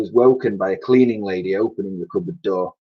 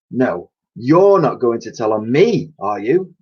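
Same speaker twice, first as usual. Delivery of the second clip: kindly cleaning lady; 2 semitones higher, 4 dB louder than usual. Acted. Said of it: "asked the lady".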